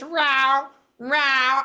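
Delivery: drawn-out mimicked meow; imitated cat noise. Medium relaying his cat complaint, imitated meowing. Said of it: "he says".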